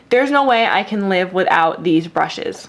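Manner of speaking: ordinary talk, nothing marked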